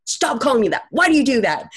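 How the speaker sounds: imitated annoyed boss. Boss confronting employee who said yes sir, imitated irritation. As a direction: act out a boss telling someone off. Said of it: "He gets in my face".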